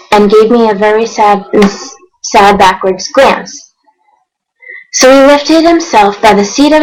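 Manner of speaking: rhythmic read-aloud of rhyming verse; storybook narration. A narrator's reading. Reading Dr. Seuss to viewers, lively storybook narration. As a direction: read it like a bedtime picture book.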